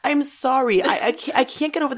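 worked up, breaking into laughs; laughing exasperation. Real, not acted. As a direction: apologize through laughter, pitch jumping up. Upset rant breaking into laughter.

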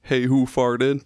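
slow, lightly growled monster voice; a half-hearted Cookie Monster growl, slowly. Retold or imitated. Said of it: "but, like, in a Cookie Monster voice".

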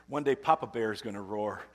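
preacher building to a climax. Real, not acted. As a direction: declare it with swelling force. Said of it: "Because one day Papa Bear's gonna roar".

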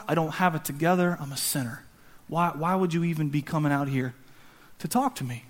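quiet, acted self-abasement; dejected unworthiness. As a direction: sink into humbled disbelief. Acted shepherd feeling unworthy.

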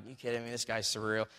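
muttered mockery under the breath; a heckler mocking the preacher, quietly; quiet heckling. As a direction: scoff softly from the back.

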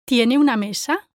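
"Tiene" emphasized, "mesa" rising as a question; stress on TIENE. Shown as a demonstration. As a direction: lean on the verb "Tiene". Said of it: "should have stressed is the verb tiene".

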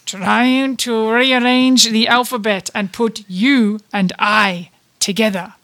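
slow, loud mock French; laboured French pick-up line; attempted French accent. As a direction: spell it out slowly in fake French. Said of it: "I'll try and do French".

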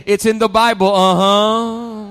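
loud preacher call, hitting uh-huh; loud preaching refrain; congregation call-out. Shown as a demonstration. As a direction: shout it to your neighbor with a grin.

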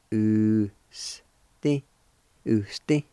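"Usti" said as OO-stee with a rising end; teacher modelling "Usti" for students; careful pronunciation. Shown as a demonstration. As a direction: say "Usti" slowly and clearly, OO-stee, for learners to copy. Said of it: "It's pronounced like this".

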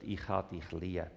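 soft, low tender whisper; whispered love. Acted. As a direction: breathe it into the child's ear. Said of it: "ins Ohr hineinflüstert".

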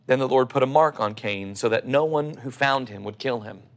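calm, measured Bible reading; scripture reading. Acted. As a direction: read the passage like a sermon text. Reads Genesis passage aloud.

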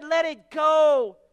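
slow, loud call; emphatic command. Retold or imitated. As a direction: draw it out like an order. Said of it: "Paul said".

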